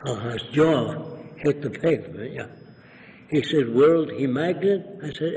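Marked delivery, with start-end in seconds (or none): 3.7-4.8 imitated Arab accent, questioning; broken English in a lightly put-on Arab accent; Arab dialect. Arab leader grasps the balloon experiment, imitated Arab dialect. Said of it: "in a dialect".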